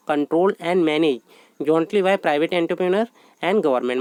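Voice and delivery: slow, measured dictation of a definition. Acted. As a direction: read it out word by word for notes. Teacher dictates definition in English.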